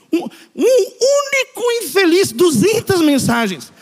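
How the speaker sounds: drawn-out, high "único infeliz"; exasperated emphasis. Retold or imitated. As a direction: stretch "Um, um único" in comic disbelief, slowly. Exasperated at one persistent texter.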